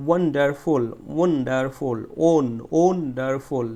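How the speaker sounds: ওয়ান্ডারফুল with a strong "won"; stressed first syllable. Shown as a demonstration. Teacher drilling students, forceful "won" in ওয়ান্ডারফুল. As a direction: punch the start of ওয়ান্ডারফুল. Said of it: "বলতে গেলে আমাদের কি করতে হয়েছে".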